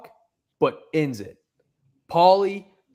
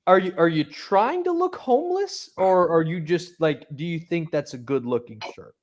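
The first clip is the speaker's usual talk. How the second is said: mocking; 2 semitones higher than usual. Mocking question to Paulie's shirt.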